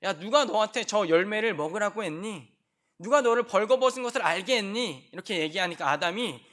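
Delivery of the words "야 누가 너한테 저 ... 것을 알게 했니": louder, higher stern God; a stern God calling Adam; God questioning. Acted. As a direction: demand an answer from Adam. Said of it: "하나님이 막 찾으시는데".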